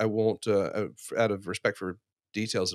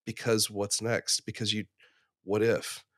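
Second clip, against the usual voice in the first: calm; 4 dB quieter than usual. Retold or imitated. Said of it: "she just very calmly said".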